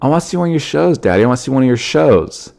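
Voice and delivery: a hint of a little girl's pleading; daughter's little voice. Daughter asking daddy to see his shows, lightly imitated child voice. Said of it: "but she said".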